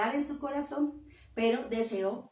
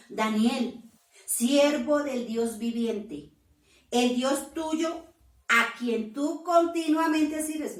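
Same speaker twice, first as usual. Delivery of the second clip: slow loud call, higher, with sorrow; sad calling out; 4 semitones higher, 5 dB louder, slower than usual. Acted. The king calls to Daniel in the den, slow and sad. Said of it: "llamó a voces a Daniel con voz triste".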